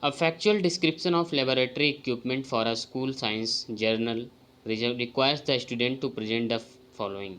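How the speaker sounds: slow, deliberate reading of a test item; careful exam-prep read-aloud; slow question reading. Acted. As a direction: read each word out carefully to the class. Reads quiz item aloud.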